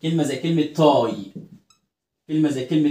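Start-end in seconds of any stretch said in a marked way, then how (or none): 0.6-1.1 "تاي" with a drawn-out eye vowel; long i. Shown as a demonstration. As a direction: stretch "تاي" like tie. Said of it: "بتعمل لونج آي".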